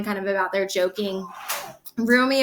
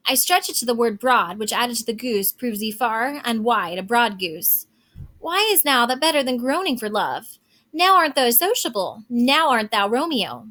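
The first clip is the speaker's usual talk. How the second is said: reading Shakespeare aloud, a little raised and lively; dramatic reading. Acted. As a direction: perform the old verse for the class. Teacher reads Shakespeare aloud.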